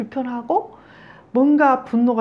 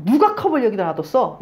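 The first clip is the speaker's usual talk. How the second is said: acting out an accusing narcissist; mock blaming outburst; 3 semitones higher, 4 dB louder than usual. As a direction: throw the blame on someone else. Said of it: "자기애적인 사람이 이걸 발로 탁 차고 나서 뭐라 그러냐면".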